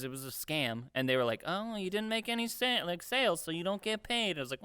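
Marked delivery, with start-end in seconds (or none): 1.5-4.4 mock dismissive employer. Employers telling worker he gets no pay, mock airy. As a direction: imitate a boss brushing off a worker.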